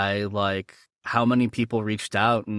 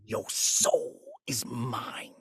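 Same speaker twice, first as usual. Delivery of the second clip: very slow, quieter stretched delivery; drawn-out villain line; 7 dB quieter, much slower than usual. Retold or imitated. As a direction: drag it out menacingly. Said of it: "but more drawn out".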